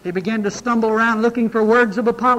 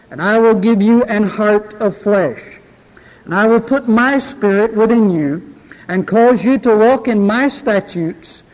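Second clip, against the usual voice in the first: solemn scripture reading. Acted. Preacher reads scripture aloud.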